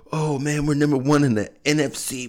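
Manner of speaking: high, bragging, showing off; mock cocky fan. Mocking Cowboys fans who thought they were number one. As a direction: gloat like a fan on top.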